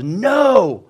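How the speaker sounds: mildly acted yell of defiance; retold defiant yell. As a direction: imitate a father yelling at the enemy. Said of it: "he just yells".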